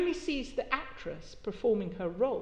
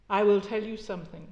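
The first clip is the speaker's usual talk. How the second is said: cooing; 5 dB louder than usual. Acted. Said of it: "she said in her cooing way".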